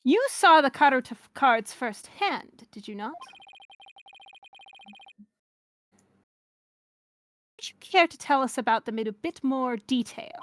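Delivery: measured mid-Atlantic prosecutor voice; halfway to British, formally delivered; light transatlantic accent for a formal questioner. Acted. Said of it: "a mid-Atlantic, transatlantic kind of thing".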